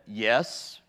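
a touch of unease, voice dropped; uncomfortable yes. Retold or imitated. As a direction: imitate a reluctant, uncomfortable answer. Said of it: "but uncomfortably".

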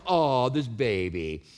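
put-on low, drawn-out coo over a baby; lightly voiced melting woman. Woman picking up a crying baby, lightly acted tender cooing. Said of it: "She's like".

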